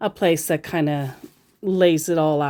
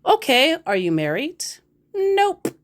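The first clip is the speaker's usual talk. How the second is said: mock chat exchange; 9 semitones higher than usual. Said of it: "mock chat".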